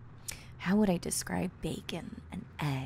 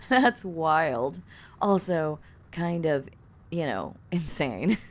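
ordinary talk

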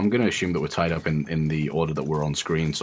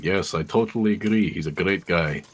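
a bit louder. Acted. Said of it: "just a little bit louder than what everyone else has been speaking".

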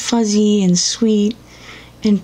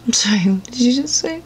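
indignant disbelief; 4 semitones higher, 4 dB quieter than usual. Acted. Outraged at advice.

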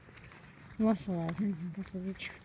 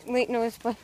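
vlog outro; 3 dB louder than usual. Acted.

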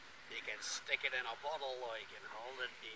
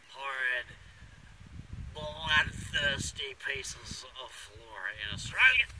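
melodramatic horror; 3 semitones higher, 10 dB louder than usual. Acted. Bushman hamming up the killer tree for viewers, loud. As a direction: build the dread, hammed up.

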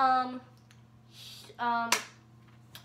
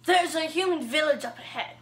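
a hint of a king character; lightly voiced king line; 2 semitones higher than usual. Host voices the King for a ranking of characters, lightly put-on voice.

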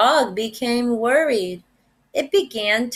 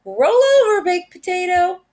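high, louder command to a dog; pet command; 9 semitones higher, 4 dB louder, faster than usual. A narrator's reading. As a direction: give the dog a cheerful order. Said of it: "commands like".

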